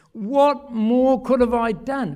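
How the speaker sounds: slow, weighty question as God; voicing God. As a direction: let God ask it slowly, grieving. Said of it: "he says".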